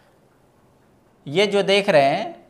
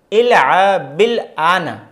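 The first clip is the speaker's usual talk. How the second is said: slow Arabic reading; much slower than usual. Shown as a demonstration. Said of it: "अब खेलो या अभी खेलो".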